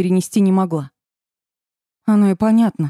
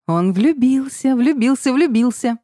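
gleeful laughing chant, much higher and slow; the dark witch crowing with laughter; 6 semitones higher, slower than usual. A narrator's reading. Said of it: "хохотала она". (хохоча, нараспев)

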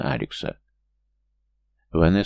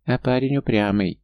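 a lightly voiced tiny gnome, higher; squeaky gnome; 6 semitones higher than usual. A narrator's reading. Gnome peeking from a pocket, higher squeaky voice. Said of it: "пискнул гном".

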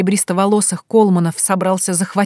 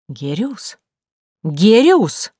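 outraged disbelief; 3 semitones higher, 3 dB louder, much slower than usual. A narrator's reading. Lady Colman hearing a lord's name, outraged disbelief. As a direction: repeat the name in shock.

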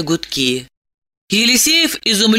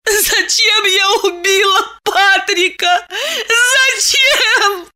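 sobbing lament; 13 semitones higher, slower than usual. A narrator's reading. Diana wails her guilt to Eliseev, sobbing. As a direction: wail it slowly through sobs. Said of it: "разрыдалась, причитая".

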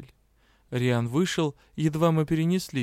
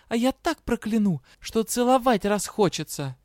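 counter-threat; 9 semitones higher than usual. A narrator's reading.

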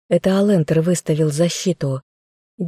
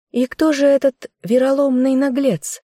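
a sharp, much higher cry; indignant outcry; 8 semitones higher than usual. A narrator's reading. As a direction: fling the question out in outrage. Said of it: "выкрикнула я".

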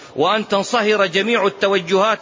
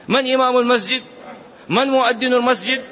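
higher, insistent mosque busybody; meddling questioner; 5 semitones higher than usual. Acted. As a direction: act out a nosy worshipper's demanding questions. Acting out a meddling mosque-goer's questions. (تقليد خفيف لفضولي يسأل بنبرة عالية)

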